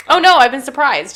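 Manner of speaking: flat, hammed-up oh no; deadpan pretend shock; mock surprise. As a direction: fake a surprised gasp, badly. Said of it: "You get smacked with a beach ball".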